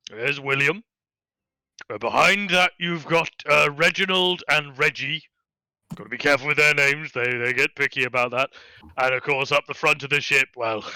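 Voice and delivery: easygoing captain introducing his crew; lightly voiced jolly captain.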